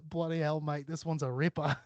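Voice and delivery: lightly put-on Aussie accent; Australian accent. Quoting a comment on her post, mock Australian accent. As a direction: read it like an amused Australian commenter. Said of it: "I fucking love Australian slang".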